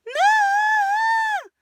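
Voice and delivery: sudden yelled cry of pain; high, loud cry from frustration; frustrated shout. Shown as a demonstration. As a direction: yell it like a kid denied ice cream. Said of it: "But they're doing this".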